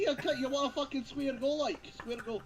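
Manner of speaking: put-on glasgow street accent. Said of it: "Scotland, there's swearing".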